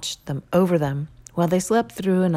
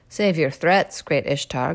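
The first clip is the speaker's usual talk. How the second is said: louder, proud declaration; defiant hero; 6 dB louder than usual. Acted. Gilgamesh rebuffs the goddess, louder and proud. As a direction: stand tall and refuse her.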